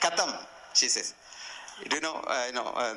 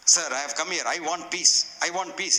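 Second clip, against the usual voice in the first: demanding disciple; 3 semitones higher, 4 dB louder than usual. Retold or imitated.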